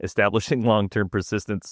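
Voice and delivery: breaking into a laugh mid-read; real laughing. Real, not acted. Co-host cracking up at the script's animal names, laughing. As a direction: try to read on through a laugh. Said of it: "Sorry, I'm just laughing".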